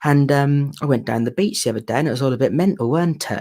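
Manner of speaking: rural English regional accent, a bit farmerish. Shown as a demonstration. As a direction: talk like a farmer in your home regional accent. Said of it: "But where I'm from, it's all like that".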